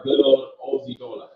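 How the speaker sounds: playful mock Australian accent; put-on Aussie accent. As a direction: put on a light Aussie twang. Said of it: "Sorry, that's my accent".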